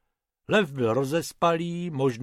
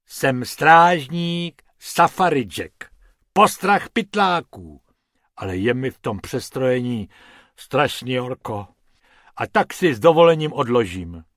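proud ranger; 5 dB louder than usual. Acted. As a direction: puff up and announce yourself. Lion-costumed ranger introduces himself.

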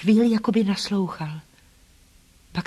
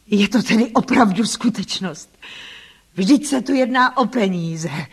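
astonished exclamation; 2 semitones higher, 3 dB louder than usual. A narrator's reading. Rochester hearing of her inheritance, astonished exclamation. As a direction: exclaim it in mild disbelief. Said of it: "vykřikl".

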